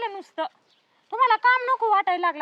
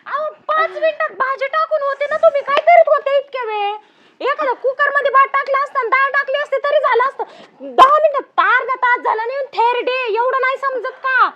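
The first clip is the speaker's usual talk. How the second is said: louder, rising rant; angry berating; 3 semitones higher, 4 dB louder than usual. Acted. Daughter-in-law berates mother-in-law.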